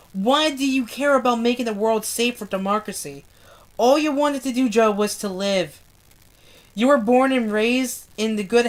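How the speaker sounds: deliberate, slightly lifted read-aloud voice; story narration. A narrator's reading. Reader rereading the last page to viewers, earnest narration. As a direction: read the passage out with steady emphasis on each phrase.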